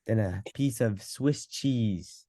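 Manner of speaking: put-on New York Italian accent; Italian pizza guy voice. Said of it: "bad at the Italian accent".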